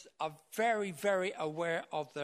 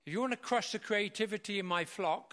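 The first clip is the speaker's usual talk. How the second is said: mock-menacing shepherd, pitched up; acted threat; 4 semitones higher than usual. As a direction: challenge the one who threatens your flock. Shepherd threatens whoever harms his sheep.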